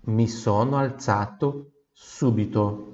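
Mi sono alzato subito said slowly; slow line for repetition; slow model. Shown as a demonstration. Teacher says it slowly for students to repeat. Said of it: "Repita em voz alta de novo".

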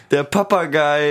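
parrot voice. Acted. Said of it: "Der Papagei ist wieder da".

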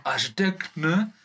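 Hessian dialect. Acted. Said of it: "sind die Nordhesse".

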